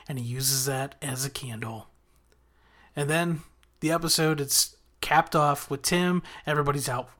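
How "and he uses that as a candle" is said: unvoiced whispered aside. Real, not acted. Recapping the show for viewers, in a whisper. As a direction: drop to a whisper for the punchline.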